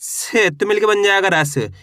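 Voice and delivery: र से joined into रस, said slowly; slow teaching pace. Shown as a demonstration. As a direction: sound out र से into रस slowly for beginners. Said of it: "कैसे?". (धीरे धीरे र से मिलाकर रस बोलना)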